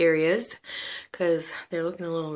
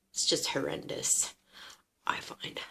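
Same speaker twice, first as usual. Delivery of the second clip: whispered aside; 2 semitones lower, 6 dB quieter than usual. Real, not acted. Quiet judging aside.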